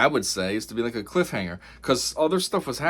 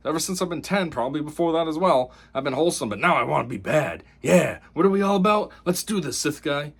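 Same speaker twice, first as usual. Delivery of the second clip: mocking Osha turning bad; 2 semitones higher than usual. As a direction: tease her like a naive kid excited to go bad. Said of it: "and she's like".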